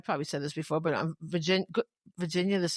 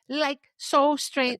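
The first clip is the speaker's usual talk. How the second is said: put-on very slow, drawn-out Valley girl talk; Valley girl imitation; 5 semitones higher, 3 dB louder, much slower than usual. Host shows how Valley girls say "like", mock Valley girl drawl. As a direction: stretch the words in a mock Valley girl accent. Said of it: "we don't say it the way they say it. They were like".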